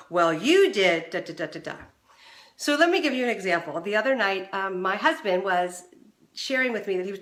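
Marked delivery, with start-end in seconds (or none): 0.1-1.8 quick blaming retort. Retold or imitated. Partner retorts with blame at the accuser, loud then trailing. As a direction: fire the blame back at them. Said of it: "oh, so quickly".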